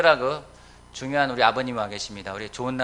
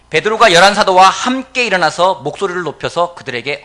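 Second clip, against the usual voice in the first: loud, raised Bible-reading voice; forceful scripture reading; 6 semitones higher, 13 dB louder than usual. Real, not acted. Preacher reading of Peter standing with the apostles, forceful proclamation. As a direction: proclaim the verse to the room.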